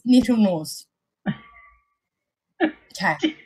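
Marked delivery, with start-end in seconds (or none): 0.0-0.9 slow New Zealand nettle nose; drawn-out nettle nose with New Zealand vowels; New Zealand accent. Retold or imitated. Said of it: "explaining my accent back to Gizzy".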